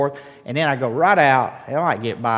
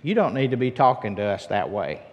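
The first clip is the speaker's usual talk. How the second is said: unruffled, slightly lowered retold reply; calm; 4 dB quieter than usual. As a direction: relay his measured, composed objection. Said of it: "he just calmly says".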